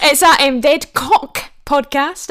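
laughing through the words; giggling loudly while saying it. Real, not acted. Joking about the podcast name.

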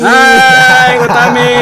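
put-on muffled, disguised girl's voice. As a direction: speak as if through cloth to hide your voice. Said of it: "agak kependem dan beda".

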